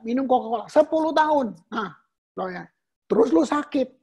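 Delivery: ordinary talk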